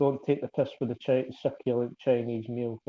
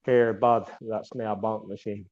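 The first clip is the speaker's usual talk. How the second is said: lightly done Northern Scots, "nae a bunk machine"; a hint of a Northern Scots bloke; Northern Scottish accent; 4 semitones lower than usual. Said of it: "Northern Scottish accent".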